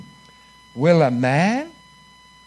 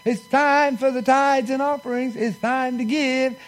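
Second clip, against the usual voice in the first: pastor's offering call; 5 semitones higher, slower than usual. Retold or imitated. Imitating the pastor calling for tithes, high and drawn out. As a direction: mimic the pastor announcing tithes. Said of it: "the pastor would get up there and say".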